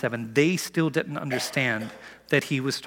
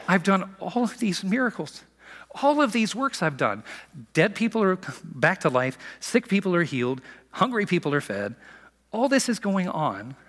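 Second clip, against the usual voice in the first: higher-pitched, insistent listing; acted exasperation; 5 semitones higher than usual. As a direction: pile up the proofs, a touch exasperated. Jesus voiced listing his proofs.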